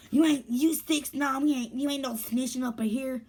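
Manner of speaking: mock the girl, stretching her words out; imitated girl. Voices the hostile girl.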